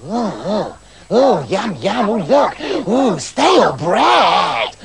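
drawn-out cry of delight at stale bread; excited little men. A narrator's reading. Little men spot the bread, excited and squeaky. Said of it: "got very excited at the sight".

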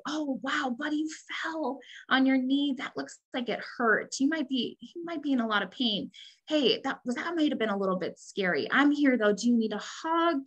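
put-on tender parent to a toddler with a scraped knee; soothing parent. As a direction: gently reassure a child who fell. Parent soothing hurt child.

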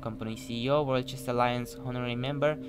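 mock-formal corporate reading, lilting pitch; pamphlet read-aloud. Player reading a CEO's pamphlet greeting, mock-formal. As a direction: read it out like a proud company message.

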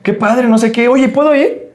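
very high, thrilled boss voice; imitating excited boss. Boss begging to come along, very high and excited. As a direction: gush like a fan who wants to come. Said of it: "como una emoción de".

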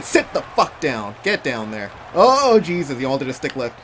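ordinary delivery

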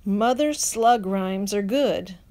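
plain reading voice

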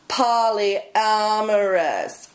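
drawn-out, slow repeat of Polyamorous in disgust. Acted. Comedian repeating a word she hates, drawn out in disgust. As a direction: spit out Polyamorous slowly like a bad taste.

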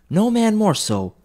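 put-on high, slow old woman; laundress agreeing. A narrator's reading. Laundress agreeing with the first woman, high and slow. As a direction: drawl agreement like a gossip.

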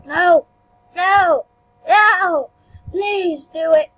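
loud drawn-out cries, then a plea; exclaimed pleading. Real, not acted. Player begging the game to work, loud pleading.

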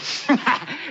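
short chuckle at own story. Acted. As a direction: let a brief laugh slip out.

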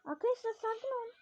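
urging calm while panicking; tense plea. Real, not acted. Gamer begs viewers to stay calm mid-fight, tense. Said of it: "Sakin ol sakin sakin".

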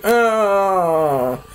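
long, drawn-out "oh" groan; hammed-up groan of defeat; mock knocked-out groan. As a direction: groan as if floored by a punch. Imitates being knocked out by punch.

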